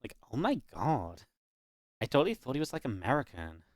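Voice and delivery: mock American viewer. Streamer mimics viewers learning where he is from, mock American. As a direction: play an astonished American viewer. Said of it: "from everyone else, they're like".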